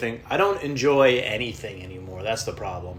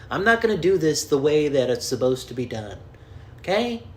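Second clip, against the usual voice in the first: Jack Nicholson; 3 semitones higher than usual. Retold or imitated. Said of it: "Was that Jack Nicholson?".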